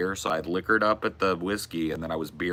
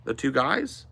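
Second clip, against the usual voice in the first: waitress voice; 6 semitones higher than usual. Retold or imitated. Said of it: "she goes".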